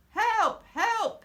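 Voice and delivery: high, loud cry for help; urgent high yell; shouted help. A narrator's reading. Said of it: "he said".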